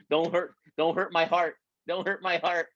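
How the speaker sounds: playful pleading. Acted. Coach pleading with her group.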